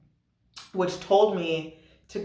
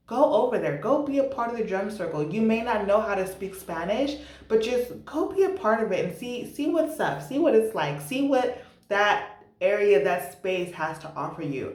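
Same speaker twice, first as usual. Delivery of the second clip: higher-pitched, coaxing self-encouragement; self pep talk; 4 semitones higher than usual. Retold or imitated. Telling herself to join the drum circle, coaxing pep talk. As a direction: urge yourself on, pitch lifted.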